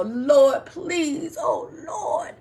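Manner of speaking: a mock desperate prayer, begging and promising; pleading prayer. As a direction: imitate someone bargaining desperately with God. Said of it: "one of those persons like".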